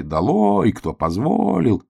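high, drawn-out mock yell; crowd's shout. Forest animals denounce hedgehog, drawn-out outcry. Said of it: "закричали".

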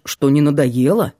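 usual speaking voice

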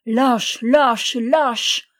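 explosive indignation; enraged cry. A narrator's reading. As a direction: hurl the insult three times. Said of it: "s'écria-t-il par trois fois".

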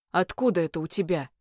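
a hint of a looming demon asking; fire demon. A narrator's reading. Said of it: "Голос демона пугающе громко прозвучал".

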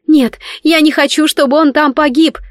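high, frantic cry. A narrator's reading. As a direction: scream it while struggling. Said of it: "кричала она". (Велена кричит, вырываясь из рук принца, высоко и отчаянно)

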